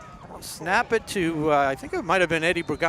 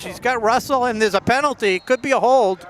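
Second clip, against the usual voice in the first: excited; 5 semitones higher, 5 dB louder, faster than usual. Real, not acted. Penalty call rising excitement.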